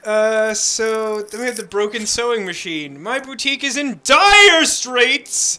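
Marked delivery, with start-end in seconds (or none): 3.0-5.6 slow, loud dramatic shopkeeper. Acted. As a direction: plead like a desperate shopkeeper. Voices quest giver.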